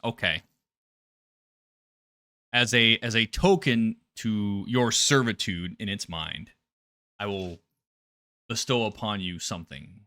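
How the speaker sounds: low, hushed creature's pronouncement; creature granting a boon. Acted. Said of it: "it's almost like".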